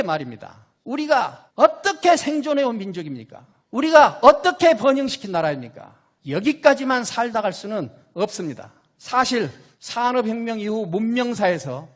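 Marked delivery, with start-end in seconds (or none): 0.8-8.7 rising rally cry, stress on 어떻게; roaring rallying speech. Real, not acted. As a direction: shout 어떻게 to the crowd. Rallying refrain to crowd.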